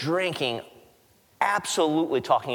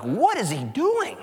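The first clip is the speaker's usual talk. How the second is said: higher, slower mock-scandalised religious leader; grumbling Pharisees; 7 semitones higher, slower than usual. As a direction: play the shocked Pharisee, lightly. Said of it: "They're like".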